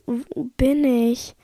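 slow, drawn-out question; dazed waking. Acted. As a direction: ask slowly, as if just coming round. Waking from a faint.

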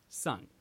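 "Sank" with the vowel of "pain"; "Sank" for "something", squashed into one syllable; Pompey pronunciation. Shown as a demonstration. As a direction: say "Sank" as fake-Cockney "saink". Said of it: "it becomes S A I N K".

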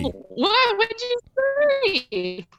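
choppy robotic bad connection; broken-up robot voice over the line. Real, not acted. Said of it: "now we got a robot voice".

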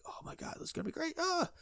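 very high, thin excited squeal; mock giddy squeal. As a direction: squeal it like an overexcited fan. Acts out his reaction to tickets.

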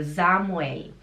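Samuel as ZA-mu-el, ending on a clear L; L on the palate. Shown as a demonstration. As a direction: finish Samuel with the tongue on the palate. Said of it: "O L no céu da boca". (Samuel com L final no céu da boca)

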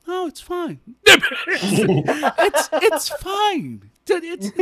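high, light, laughing no it's fine. Retold or imitated. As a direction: brush it off through a laugh. Insisting with laugh.

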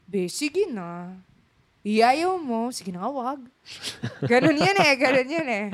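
playful mock of the cohost; mimicking her. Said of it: "And your tea".

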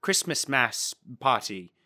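hammed-up upper-class English voice; posh British official. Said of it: "officials being like".

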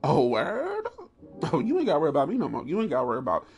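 sarcastic comeback. Acted. Sarcastic reply to friend.

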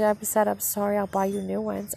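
a hint of a small child saying sorry; lightly voiced four-year-old. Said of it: "She was four years old".

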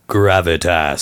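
low, resonant gravitas voice; deep voice. Retold or imitated. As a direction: drop the voice for weight. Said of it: "try and outvoice each other".

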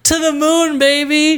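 shouted, hyped-up crypto bro. Pretend. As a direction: yell it like a pumped meme-stock trader. Mocking crypto investors.

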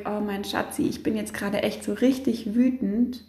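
sweet, soft, fake-gentle anger announcement; lovingly calm. Shown as a demonstration. Parent sugarcoating anger to the child, softly and lovingly. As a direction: say you're furious as if soothing a baby. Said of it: "nicht liebevoll ruhig".

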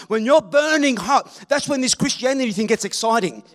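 preacher peaking on the image of burning faith; fiery emphasis. Real, not acted. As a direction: stretch it out with fire. Preacher building to climax.

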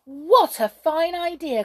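high, loud, delighted cry. A narrator's reading. Brownies delighted by the plan, cry out high and loud. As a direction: burst out with the plan, thrilled. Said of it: "cried Skip and Jump in delight".

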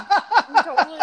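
talking while chewing; speaking around a bite of food; mouth full. Real, not acted. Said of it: "I'm stuffing my face right now".

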